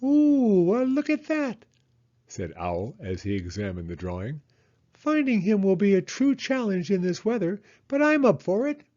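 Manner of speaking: high, loud, impressed owl; Owl's voice. Acted. Owl looking at Hedgehog's drawing, high and impressed.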